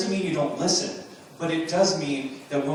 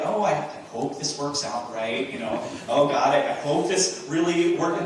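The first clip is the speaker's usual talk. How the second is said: unsure. Pretend. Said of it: "He doesn't say, like".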